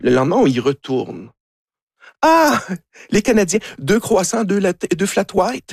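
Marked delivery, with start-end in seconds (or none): 2.2-5.7 high, bright greeting of regulars; cheerful greeting. Retold or imitated. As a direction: greet the returning Canadians warmly, pitched up. Serveur qui les reconnaît. (serveur qui accueille les habitués, voix haute et enjouée)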